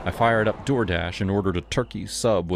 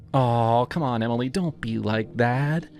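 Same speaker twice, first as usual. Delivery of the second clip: higher, sleazy grinning voice; creepy delivery guy; 5 semitones higher than usual. Acted. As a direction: play him smug and off-kilter.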